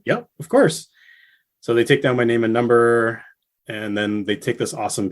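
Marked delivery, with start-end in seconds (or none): 0.0-0.9 imitated casual reply, pitched much higher; breezy higher mock yes; playing it cool. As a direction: act out staying cool with the band. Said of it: "And I said".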